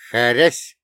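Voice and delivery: loud, sudden spoken "whack"; punch sound effect. Acted. Narrator punching the first attacker, loud impact word. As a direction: burst it out like a blow landing.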